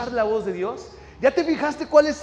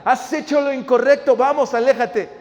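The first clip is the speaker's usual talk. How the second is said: loud, raised accusing voice; accusing enemy; 4 semitones higher, 6 dB louder than usual. Acted. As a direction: push them away forcefully. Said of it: "el enemigo te va a decir".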